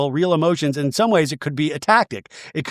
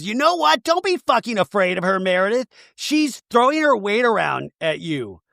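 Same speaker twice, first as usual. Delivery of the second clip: mock fired-up urging; 5 semitones higher than usual. Retold quarrel, rallying a friend.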